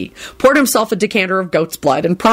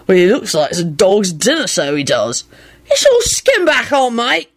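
a hint of a tipsy secret; lightly voiced conspiratorial drunk; 2 semitones higher than usual. A narrator's reading. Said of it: "Victor whispered conspiratorially".

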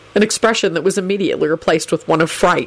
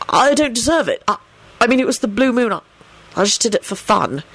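hesitant, pitched-up protest; earnest; 5 semitones higher than usual. A narrator's reading. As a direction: explain earnestly, halting between phrases. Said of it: "he explained earnestly".

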